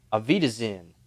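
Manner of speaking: hesitant try at Southern-flavored German; German-Southern accent. Shown as a demonstration. Game master attempting accent on request, German-Southern. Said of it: "German accent that's in a Southern voice".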